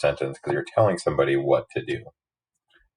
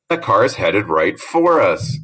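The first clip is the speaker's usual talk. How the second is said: urgent, a bit louder warning; alarmed warning; 3 semitones higher, slower than usual. Shown as a demonstration. Teacher showing how to alert people, urgent. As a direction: warn them the car is coming. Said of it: "you say it really loudly and excitedly".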